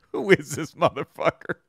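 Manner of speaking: 부커 T 흉내; imitating Booker T. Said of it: "you can hear Booker T go".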